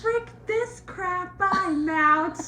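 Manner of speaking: mock fed-up exit. Everyone leaving party, retold.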